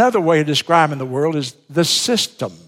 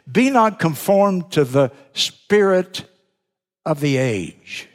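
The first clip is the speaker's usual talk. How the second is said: slow scripture reading; slower than usual. Real, not acted. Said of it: "read your Bible with that thought".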